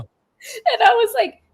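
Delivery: drawn out slowly, laughing through it; slow laughing words. Real, not acted. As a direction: still giggling as you set up the line. Laughing while retelling.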